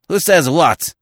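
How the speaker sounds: loud, high, indignant demand; incensed cry. A narrator's reading. Magistrate interrupting the stammering attendant, incensed. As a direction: cut in loudly, outraged. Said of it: "cried the justly incensed magistrate".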